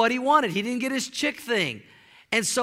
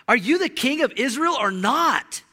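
demanding queen; 3 dB louder than usual. Retold or imitated. Jezebel scolds her husband.

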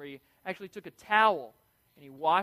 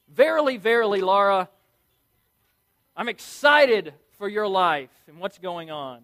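louder proclaiming in biblical phrasing; mock biblical speech; 7 dB louder than usual. Shown as a demonstration. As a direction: announce it grandly to Laura. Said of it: "start talking like this".

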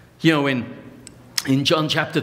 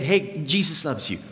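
offhand pat on the head, tossed away; blasé brush-off. Retold or imitated. Preacher mocking a careless brush-off to the congregation, blasé. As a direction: say it like you're brushing someone off. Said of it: "in a blasé way to try and brush somebody off".

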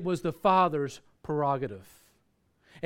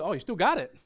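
higher-pitched surprised check; pleasantly surprised; 5 semitones higher than usual. Retold or imitated. Pastor hearing the caller kept the tract, surprised. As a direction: echo it back in mild amazement.

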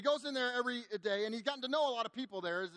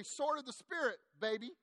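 higher-pitched mock victory line; triumphant cheer; 4 semitones higher than usual. Waitresses high five after Chuck storms out, mildly triumphant. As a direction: imitate a high-five celebration, lightly. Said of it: "give each other a high five".

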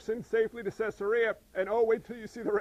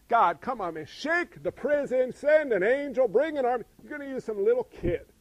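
loud, punchy disbelief at God; hammed-up protest, raised and insistent; mock exasperated plea; 3 semitones higher, 6 dB louder than usual. Preacher playing a doubter arguing with God, mock exasperation.

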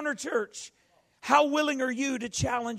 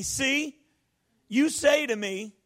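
slow, cocky "See, you say to me"; a bit cocky; slower than usual. Shown as a demonstration. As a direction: lean on it like Moses talking back. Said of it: "a little bit cocky".

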